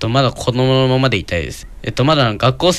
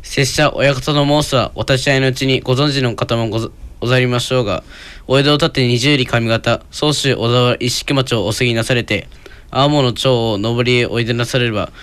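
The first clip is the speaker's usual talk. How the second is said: uiro-uri recitation. Shown as a demonstration. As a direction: recite it carefully like announcer drill practice. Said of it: "やってみようかね。".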